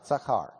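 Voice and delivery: "Zakar" said back, falling; repeating zakar. Shown as a demonstration. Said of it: "Say that".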